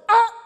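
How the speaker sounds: short high loud shriek; first try at a frightened girl's scream; sudden piercing yelp; imitated child's scream. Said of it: "she went like this".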